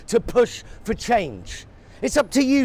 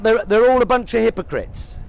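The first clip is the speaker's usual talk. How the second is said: louder, mock-indignant critic; 4 dB louder than usual. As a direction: parrot the critic's sneer. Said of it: "shall I tell you what you sound like".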